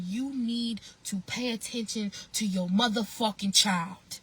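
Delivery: firm scolding, punching the last word; snapping at a parent. Acted. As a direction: start telling the dad off, heating up. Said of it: "I would have snapped on that motherfucking dad".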